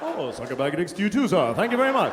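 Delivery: cheery, polite thanks, lifting at the end; hammed-up courteous reply; mock friendly greeting. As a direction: return the insult as a pleasant greeting. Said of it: "like a greeting".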